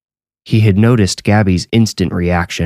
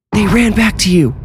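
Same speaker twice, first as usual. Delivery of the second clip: sudden high cry, much higher pitch; sudden loud outburst; 14 semitones higher than usual. A narrator's reading. Boy suddenly cries out to the room, high sudden outburst. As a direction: blurt it out high and sharp. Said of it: "Startlingly loud, Anthony suddenly said".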